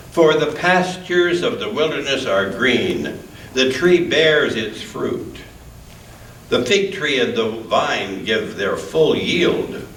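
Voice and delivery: measured, solemn reading of scripture. Acted. Reader giving Joel's words to the congregation, solemn reading. Reads Joel scripture aloud.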